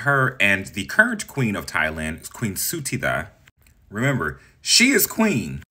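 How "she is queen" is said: "is" drawn out and punched, slow and higher; stress on IS. Real, not acted. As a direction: lean hard on "is", slowly. Stressing queen versus consort.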